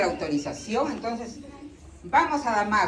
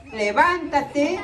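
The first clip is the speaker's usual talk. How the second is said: slow command; 4 semitones higher, much slower than usual. Acted. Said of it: "Le dice".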